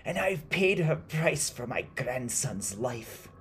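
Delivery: high, loud, slow and anguished; crying out. Acted. Old woman confessing the price paid for her grandson, crying out. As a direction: cry it out slowly, insisting. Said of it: "she cried".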